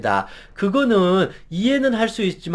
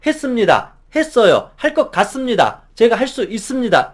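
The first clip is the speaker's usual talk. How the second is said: a bit higher, clear and decisive; confident endings; 3 semitones higher than usual. Shown as a demonstration. Employee practising at home, confident clear endings. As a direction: say it proudly and firmly. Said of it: "이런 식으로 매일매일 집에서 말투만 바꿔도".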